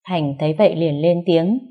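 usual speaking voice

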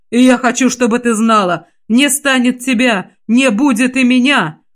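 desperate vow. Acted.

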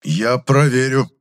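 slow, threatening; menacing. A narrator's reading. Chemist threatening the liar. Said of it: "с угрозой в голосе".

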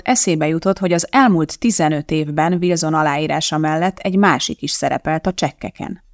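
usual speaking voice

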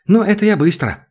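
high, eager little burst; joyful squeal. A narrator's reading. Girl volunteers to kiss the prince, joyfully squealing. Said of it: "радостно пискнула Ветерок".

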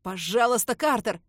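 terrified snitch begging, near sobbing; sobbing plea. Acted. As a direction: beg for your life through tears. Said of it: "продолжает утираться соплями Фриман".

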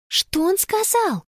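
high, slow, lost little voice; bewildered question. A narrator's reading. Girl lost on the platform, asking bewildered. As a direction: ask it, confused and thrown. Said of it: "растерянно спросила она".

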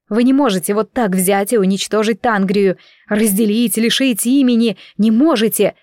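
a hint of hysteria building; rising outrage. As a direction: build the anger to the last words. Heroine rages against destruction.

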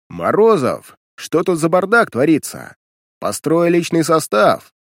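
loud, slow officer's order; angry command. Acted. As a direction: bark the order to fall in. Major scolds mess, orders formation.

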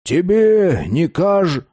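slow, breaking off at каж-; cut off mid word. A narrator's reading. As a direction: stop dead after каж-. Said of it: "Он замолчал на полуслове".

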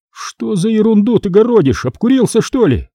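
usual speaking voice

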